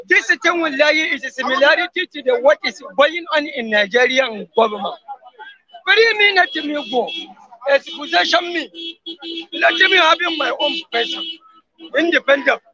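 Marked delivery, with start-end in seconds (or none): 5.8-12.6 higher, pleading voice of a small nation begging to go; lightly voiced Ukraine begging Russia to let go. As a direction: beg to be set free as Ukraine. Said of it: "Ukraine, I say, leave me".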